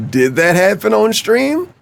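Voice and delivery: high mocking voice. Quoting DSP.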